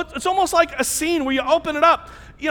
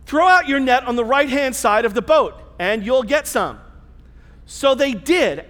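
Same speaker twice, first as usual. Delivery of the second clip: measured, even reading of the passage; scripture reading. Acted. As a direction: read the Gospel aloud to the congregation.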